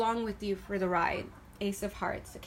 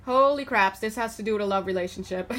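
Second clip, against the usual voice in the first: louder holy craps, then rushing on fast; louder, fast excited realization; louder amazed exclamation; 5 dB louder than usual. Retold or imitated. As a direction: blurt it out as the cards land. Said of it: "I was like".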